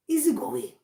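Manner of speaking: sudden loud exclamation; loud easygoing act. Acted. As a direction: blurt it out loudly. Acting out a changed manner.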